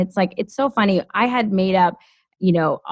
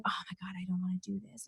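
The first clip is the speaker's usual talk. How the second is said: hushed and rushed, near silent; a dreading half-whisper; despairing under breath; 19 dB quieter, much faster than usual. Retold or imitated. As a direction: mutter it to yourself in dread, fast. Retelling dread reading job ads.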